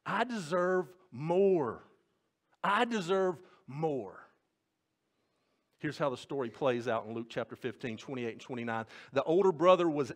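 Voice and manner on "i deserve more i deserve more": slow, drawn-out I deserve more; entitled whine. Shown as a demonstration. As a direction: stretch it out like a sulking child. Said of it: "entitlement mentality".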